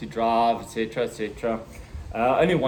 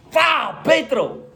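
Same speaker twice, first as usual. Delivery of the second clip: slow, high punchy Pow; gleeful mock shout; 10 semitones higher, 5 dB louder, slower than usual. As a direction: stomp the gas with glee. Flooring the gas pedal.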